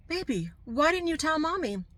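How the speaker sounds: put-on high, tender question to a child; gentle mother. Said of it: "I says".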